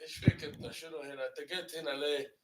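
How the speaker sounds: everyday questioning in Saudi Arabic. Shown as a demonstration. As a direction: demonstrate a Saudi dialect. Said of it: "the, uh, Saudi Arabic".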